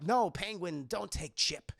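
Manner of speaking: lightly voiced halting pleading; Max Schreck impression. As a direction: plead in short, separated phrases as a lightly imitated tycoon. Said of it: "Walken's Max Schreck, he's like".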